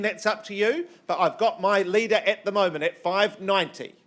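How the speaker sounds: lively, projected auctioneer patter; auctioneer's bid calling. Real, not acted. Auctioneer encouraging the first bidder at five ninety, upbeat bid calling. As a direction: work the crowd from the opening bid.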